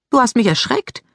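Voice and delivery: high, reproachful complaint; mildly reproachful girl. Acted. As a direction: scold him for the scare. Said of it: "sagte Mary Lou vorwurfsvoll".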